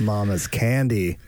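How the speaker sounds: slow dreamy mock; drawn out, savoring each word; blissful. Mocking the candy lady.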